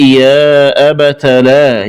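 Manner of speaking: أبت said "abata"; open ta. Shown as a demonstration. Teacher showing the linked reading, أبت with final a. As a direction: end أبت on short a before لا. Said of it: "بفتح التاء".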